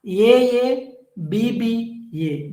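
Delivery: each letter of A A B B A spaced out slowly; slow dictation. Shown as a demonstration. Teacher dictating rhyme scheme to class, slow and spaced. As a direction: dictate A A B B A so students note it. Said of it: "You should remember this".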